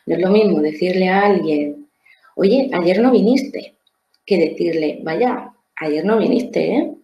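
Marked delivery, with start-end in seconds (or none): 2.4-3.8 slow, reproachful "Oye, ayer no viniste" with a firm, drawn-out "no". Shown as a demonstration. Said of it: "pero el tono es diferente". 5.0-6.9 a light, lifted "Vaya" then a slow, easy "ayer no viniste, ¿eh?"; understanding tone. Shown as a demonstration. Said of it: "pero el tono es diferente".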